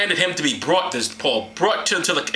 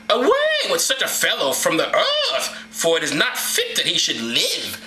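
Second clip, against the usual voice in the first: crowd outcry; 2 semitones higher than usual. Acted. Crowd calling for Paul's death, mock outcry. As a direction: declaim it like an indignant mob. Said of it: "lifted up their voices and said".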